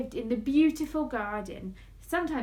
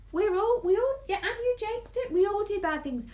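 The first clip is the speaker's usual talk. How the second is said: emphatic; 8 semitones higher, 5 dB louder, faster than usual. A narrator's reading. Earnest emphatic point.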